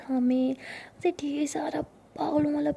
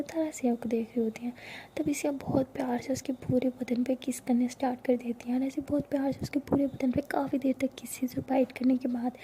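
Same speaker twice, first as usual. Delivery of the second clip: whispered narration. A narrator's reading. Narrator whispering a love story to listeners. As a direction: breathe the story close to the mic.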